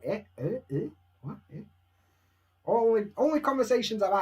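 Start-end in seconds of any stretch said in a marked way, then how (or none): 0.0-1.6 mock confusion, rising questioning grunts; baffled. Learner lost in a Japanese conversation, mock baffled. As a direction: act lost in a conversation, each bit a question. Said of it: "you're just like".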